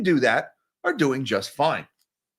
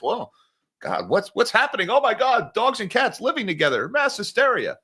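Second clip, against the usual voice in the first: hammed-up end-of-the-world alarm, pitched high; mock panic; 6 semitones higher than usual. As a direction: fake hysteria for laughs. Mock panic, movie quote.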